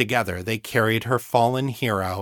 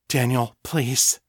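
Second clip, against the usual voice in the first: choked plea; slower than usual. Acted. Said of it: "hoarse and choked with emotion".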